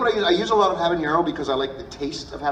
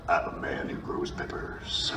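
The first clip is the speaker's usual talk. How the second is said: macho man voice; 11 semitones lower, 8 dB quieter, slower than usual. Retold or imitated. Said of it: "you go".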